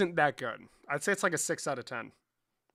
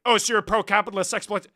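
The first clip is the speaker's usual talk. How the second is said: mocking quote; 4 semitones higher, 10 dB louder than usual.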